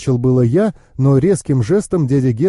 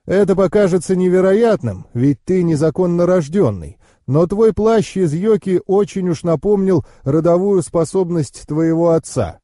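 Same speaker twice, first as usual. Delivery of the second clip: higher-pitched knowing uncle; explaining uncle; 5 semitones higher than usual. Acted.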